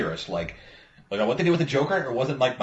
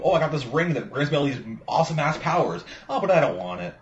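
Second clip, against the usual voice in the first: lightly imitating a whiny reluctant hero; mock whining; 2 semitones higher than usual. Friend mimicking Green Lantern's reluctance to a friend, mock whining. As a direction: whine it a little, mockingly. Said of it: "really whiny kind of bitch".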